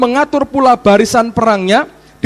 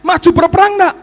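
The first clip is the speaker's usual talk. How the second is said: pleading prayer; 9 semitones higher than usual. Retold or imitated. Israelites pleading with God.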